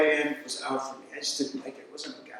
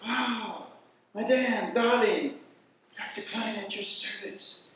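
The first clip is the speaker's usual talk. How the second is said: a lightly voiced charming doctor, higher, slowing at the end; suave doctor; 4 semitones higher, slower than usual. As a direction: play a gallant ladies' man greeting a patient. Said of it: "and go".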